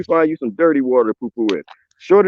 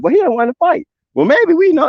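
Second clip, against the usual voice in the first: Russian pilots voiced; 11 semitones higher than usual. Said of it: "And then the Russians like".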